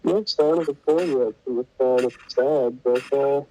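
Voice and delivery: muffled, like a hand over the mouth. Real, not acted. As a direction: talk through a covered mic. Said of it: "Sorry, you sound a bit muffled".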